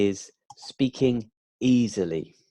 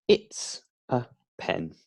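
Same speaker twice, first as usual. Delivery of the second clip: learner's answer; 5 semitones lower than usual. Shown as a demonstration.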